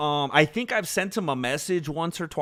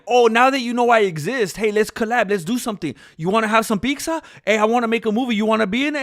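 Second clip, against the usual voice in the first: overeager; 7 semitones higher, 6 dB louder, faster than usual. Retold or imitated. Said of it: "If I'm like".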